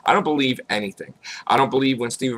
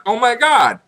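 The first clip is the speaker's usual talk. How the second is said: mock shock; 4 semitones higher, 4 dB louder, slower than usual. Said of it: "you find out".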